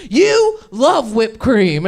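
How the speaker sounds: slow coaching niece. Retold or imitated. Niece patiently coaching her scared aunt, slowly. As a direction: spell it out slowly like a patient kid.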